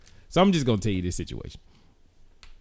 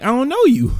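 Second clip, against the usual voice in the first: laughing; 13 semitones higher, 5 dB louder than usual. Retold or imitated. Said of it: "I was like".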